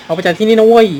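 hammed-up inmate yell; mock shout. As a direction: bark it out like the inmate. Reading an inmate's shouted line.

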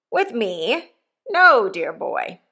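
hint of a coarse old convict talking to his boy; rough convict. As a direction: give the old convict a bluff, hearty push. Convict Magwitch voiced in story.

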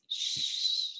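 soft unvoiced shush; whispered shh. Shown as a demonstration. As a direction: hush them gently with a whisper. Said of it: "It means".

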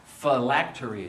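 "Phylacteries" said slowly, syllable by syllable; careful pronunciation. Shown as a demonstration. Pastor helping reader past a hard word, "Phylacteries" said slowly and clearly. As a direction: sound out "Phylacteries" as fuh-LAK-tuh-reez.

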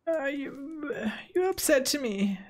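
high unvoiced mock whisper; silly voice. Player mock whispering his grievance to Sardinia. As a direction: hiss it like a wounded ruler. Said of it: "I don't know why I'm talking like this".

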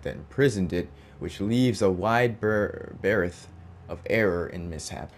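measured storybook reading, falling at phrase ends; formal narration, each phrase starting up and settling down; lore read-aloud. Acted. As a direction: read it out like a solemn codex entry. Reads game lore aloud.

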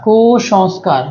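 "কুসংস্কার" with the first syllable held apart; sounded out. Shown as a demonstration. Teacher breaking down a spelling for students, "কুসংস্কার" sounded out in parts. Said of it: "অর মতো উচ্চারণ হলে".

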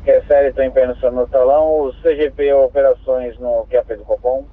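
crackly two-way radio transmission; squelchy handheld radio; police radio. Real, not acted. Dispatcher over radio.

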